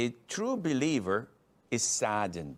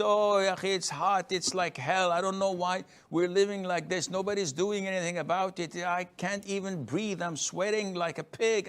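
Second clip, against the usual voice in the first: a higher, mock-whiny moan about the heat; whining complaint; 5 semitones higher than usual. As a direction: complain like a sulky brother who is sick of the heat.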